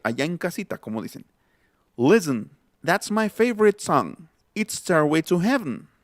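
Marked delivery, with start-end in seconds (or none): 1.9-5.9 'Listen' as LIS-n, 'favorite' as FAV-rit, 'Heaven' as HEV-n; natural English reductions. Shown as a demonstration. Teacher demonstrating the phrase, 'Listen', 'favorite', 'Heaven' all reduced. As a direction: swallow weak vowels in 'favorite' and 'Heaven', no t in 'Listen'. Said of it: "escuchen y traten ustedes de pronunciar esa frase".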